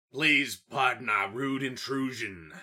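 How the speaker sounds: loud, slow, formal holler into the empty house; goblin hollering. A narrator's reading. Goblin calling into a dark house, loud slow holler. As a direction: call it out loud and slow, mock-polite. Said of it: "Toad Swallow hollered into the house".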